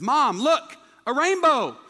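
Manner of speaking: put-on high, loud excited kid; a six-year-old spotting a rainbow, excited; excited child. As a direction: point at the sky all thrilled. Excited child in retold story.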